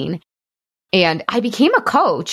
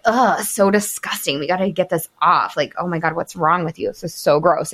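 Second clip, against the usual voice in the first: lightly voiced harsh inner critic; a hint of a sneering inner voice. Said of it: "my lower brain really being like".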